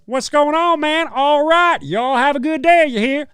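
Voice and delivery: high, loud hammed-up American accent; mock American drawl. Mocking how Americans talk, hammed-up American accent. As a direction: lay on a cartoon Southern American twang. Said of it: "me labeling the American accent as".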